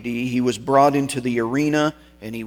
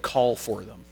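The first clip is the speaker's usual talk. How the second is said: very calm; 4 dB quieter than usual. Retold or imitated. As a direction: answer the threat without any strain. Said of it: "very calmly".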